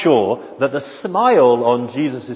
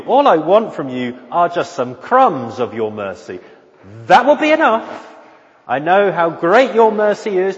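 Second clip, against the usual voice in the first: impassioned plea, climbing high and loud; fervent, high-pitched supplication; desperate pleading; 4 semitones higher, 3 dB louder than usual. Acted. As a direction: beg for mercy with rising urgency. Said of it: "this desperately needy woman".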